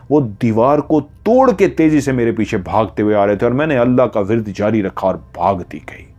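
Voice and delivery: ordinary delivery, nothing marked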